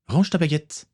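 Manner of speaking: plus aigu, ton d'ordre sec; ordre. A narrator's reading. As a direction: donner un ordre net. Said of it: "ordonna-t-elle". (Akiko ordonne à John de ranger sa baguette)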